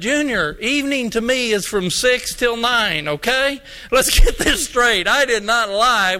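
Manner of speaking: insistent, mildly exasperated explanation; retold firm correction. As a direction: act out a pastor laying down his definition. Pastor sets Junior straight.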